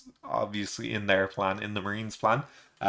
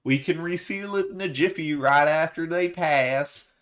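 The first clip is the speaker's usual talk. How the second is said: a lightly pitched-up cheerful assistant; Edison voice; 7 semitones higher than usual. Retold or imitated. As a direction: play a chipper scientist standing ready. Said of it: "He's saying".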